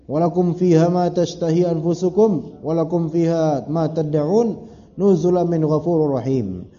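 chanted Arabic verse, measured and melodic; Quranic recitation. Acted. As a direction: recite it like scripture.

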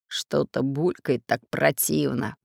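slow, low grimacing pirate; disgusted. Acted. Pirate grimacing at bubbling flasks. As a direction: wrinkle your nose as you say it. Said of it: "поморщил нос пират Бульбуль".

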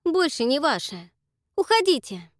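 high and loud command; a loud final order; cold dismissal. Acted. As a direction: throw them out. Dakota sends them away.

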